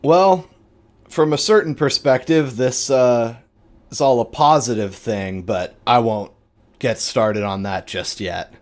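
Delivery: the leader holds forth grandly; a big pronouncing voice that eases off; Uriah's voice. Acted.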